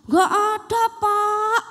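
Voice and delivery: put-on loud, high kids' chorus; in unison. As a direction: call it together like a class. Class answers in chorus again.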